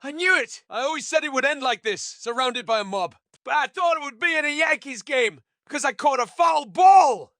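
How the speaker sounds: high-pitched frantic rant; frantic outburst, loud at the end. A narrator's reading. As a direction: wail it high, building to a shout.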